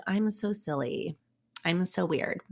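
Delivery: self-deprecating. Shown as a demonstration. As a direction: sigh it out like a put-down. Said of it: "Instead of".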